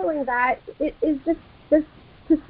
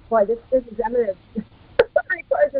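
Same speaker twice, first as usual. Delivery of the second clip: far-off muffled voice; sounding distant through the phone; 2 semitones lower than usual. Real, not acted. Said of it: "you're kind of fading out for me".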